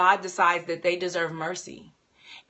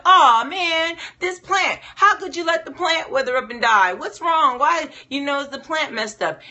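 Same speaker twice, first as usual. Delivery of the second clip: much higher and louder, whiny frustrated outburst; frustrated Jonah; 8 semitones higher, 5 dB louder than usual. Acted. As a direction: wail at God over the dead plant like a sulking prophet. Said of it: "Jonah gets super frustrated 'cause he's like".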